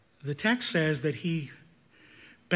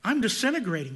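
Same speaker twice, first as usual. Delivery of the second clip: terrified cry; 5 semitones higher, 4 dB louder than usual. Retold or imitated. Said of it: "He cried out".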